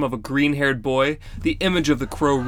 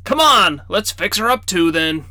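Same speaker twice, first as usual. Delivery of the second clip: grandfather voice; 5 semitones higher, 5 dB louder than usual. Acted. Grandfather sighs into action.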